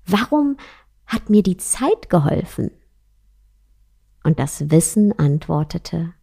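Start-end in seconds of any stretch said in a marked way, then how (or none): 0.1-2.7 astonished question. Acted. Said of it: "fragte die Liebe erstaunt".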